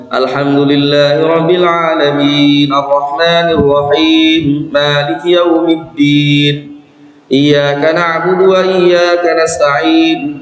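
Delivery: quick Al-Fatihah recitation with short vowels; fast-paced Quran reading; brisk recitation. Shown as a demonstration. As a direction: read it at a brisk even pace. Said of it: "Itu kan cepet".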